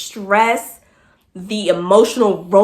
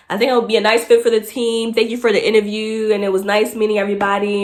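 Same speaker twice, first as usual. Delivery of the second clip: formal email read; faster than usual. Retold or imitated. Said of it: "I structure it formally".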